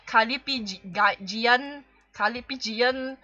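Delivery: Calipigian sounded out slowly syllable by syllable; slow sounding out of Calipigian; careful pronunciation. Shown as a demonstration. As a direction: spell Calipigian out slowly, ka-li-pi-gian. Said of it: "Ca-, ca-, cal".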